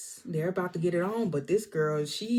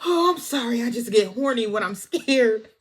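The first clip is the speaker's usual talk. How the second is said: mock coy excuse; 4 semitones higher, 5 dB louder than usual. Ruth excuses herself coyly.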